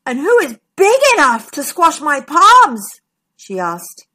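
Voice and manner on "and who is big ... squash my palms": puzzled. A narrator's reading. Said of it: "Triceratops was puzzled".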